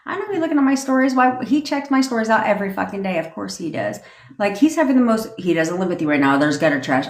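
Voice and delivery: smug, cocky and amused; bad bitch certainty. Shown as a demonstration. Coach demoing cocky certainty about an ex, smug with a laugh. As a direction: brag like it's obvious he's obsessed. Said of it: "You say it with an assurity, confidence, certainty".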